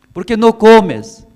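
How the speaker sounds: husband urges Ana to eat, pleading high and loud. Acted. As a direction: beg her to eat like a worried husband.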